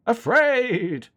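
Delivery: high, loud creature wail; frightened talking possum. Acted. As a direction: cry out like a scared little animal. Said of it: "the possum can talk".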